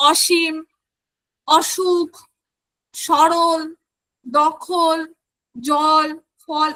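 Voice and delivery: each word set apart, the অ kept open; natural pronunciation. Shown as a demonstration. Teacher giving examples of natural Bengali vowels, demonstrating clearly. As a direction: say অসীম, সরল, জল with an open 'aw' vowel. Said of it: "স্বাভাবিক রীতি অনুযায়ী কেমন উচ্চারণ হয়".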